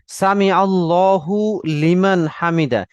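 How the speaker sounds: slow, separated "সামি আল্লাহু লিমান হামিদা"; measured model reading, "লিমান" kept apart from "আল্লাহু"; careful recitation. Shown as a demonstration. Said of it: "সতর্কতার সাথে আমরা এটা যেটা করব".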